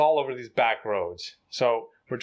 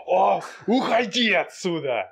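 high, slow, exasperated send-off; fed-up dismissal; 7 semitones higher, 4 dB louder than usual. Retold or imitated. Officer gives up after thirty minutes, imitated high exasperated dismissal. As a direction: imitate giving up with a big "oh", pitched up.

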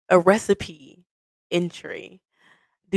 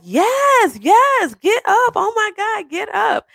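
very high, squealing yeses; imitating a thrilled yes; excited acceptance; slower than usual. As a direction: squeal it, overcome with joy. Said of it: "you're like".

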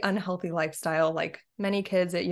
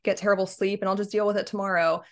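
carefree excuse. Retold or imitated. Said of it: "so much more fun to say".

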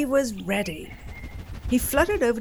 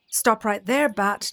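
stern zebra; 4 dB louder than usual. Acted. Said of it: "neighed Zebra".

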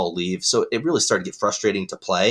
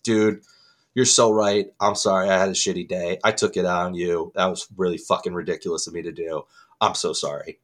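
subdued apology, sinking lower; retold apology; 3 semitones lower than usual. Gamer messaging the guy he took it out on, mildly contrite. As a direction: imitate apologizing, letting the voice drop. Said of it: "really apologize".

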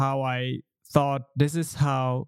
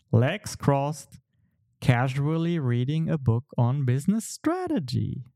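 storytelling voice. Acted. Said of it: "my best storytelling voice".

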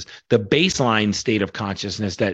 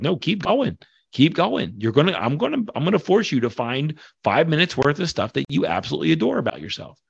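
coaching voice; 5 semitones higher than usual. Retold or imitated. Coach pushing workshop participants.

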